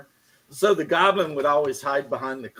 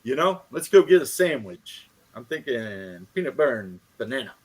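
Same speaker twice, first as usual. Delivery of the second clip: A famous singer's voice. Retold or imitated. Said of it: "I had Black Razor talk like a famous singer".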